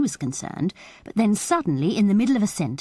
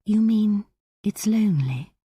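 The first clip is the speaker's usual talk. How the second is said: higher, gently murmured question; 4 semitones higher than usual. A narrator's reading. Anne asks Reggie about his life away, murmuring. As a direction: ask it with a hushed touch. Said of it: "Anne murmured".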